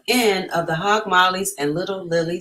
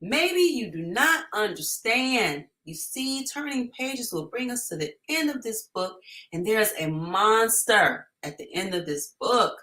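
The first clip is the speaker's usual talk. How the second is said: lightly voiced Grover; 5 semitones higher than usual. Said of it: "I wish I could do his voice".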